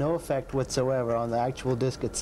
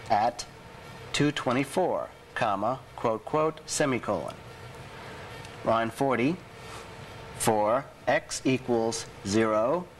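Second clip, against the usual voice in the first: dictating. Shown as a demonstration. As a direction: read each code word out clearly. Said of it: "Okay, let's go to it".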